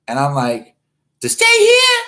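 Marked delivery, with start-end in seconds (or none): 1.2-2.0 very high, loud disbelieving squeal; incredulous shriek. Retold or imitated. Host to a pushy fan, shrieking in disbelief.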